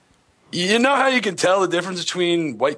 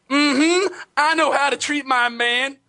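high, sassy put-on Black woman voice; hammed-up sassy phone fighter; African American accent; 11 semitones higher, slower than usual. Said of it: "I do the worst black voice".

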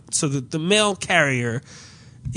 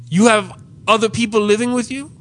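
higher, questioning Caribbean imitation; Caribbean clerk; 6 semitones higher, 4 dB louder, faster than usual. Clerk questioning customer over the mail, higher Caribbean voice. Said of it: "like, Caribbean dude who's kinda".

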